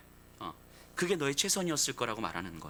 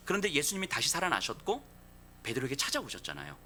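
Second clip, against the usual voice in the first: ordinary talk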